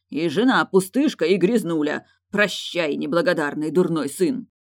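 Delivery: angry stepfather yelling at son; angry shout. Acted. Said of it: "крикнув".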